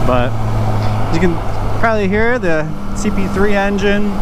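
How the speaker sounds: muffled helmet mic over engine; talking from inside a helmet; inside a motorcycle helmet. Real, not acted. Riding bike, talking in helmet.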